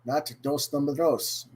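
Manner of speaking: "dos" said the Spanish way, dohs; mock-Spanish "dos number dos". Shown as a demonstration. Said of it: "We are not speaking in Spanish".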